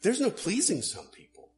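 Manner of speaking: lightly voiced peasant, wounded pride; ex-leper punchline. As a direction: deliver the punchline as a put-upon beggar.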